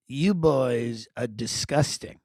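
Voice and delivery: flat mom voice. Retold or imitated. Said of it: "She goes".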